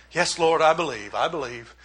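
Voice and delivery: fading from low and soft to almost nothing; dismissive shutdown. Retold or imitated. Martha shutting Jesus down, fading dismissively to a murmur. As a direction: brush him off, letting each repeat die away. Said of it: "more of a shutdown".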